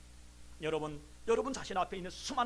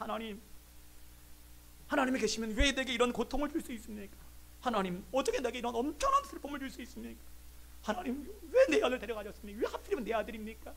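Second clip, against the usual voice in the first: mildly anguished pleading, pitch lifting; retold tearful protest; 3 semitones higher than usual. Grieving professor protests to God, mock-tearful pleading. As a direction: plead as a bereaved father, lightly acted. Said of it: "울면서 막 밤낮으로 울면서 고통을 호소하며 원망합니다".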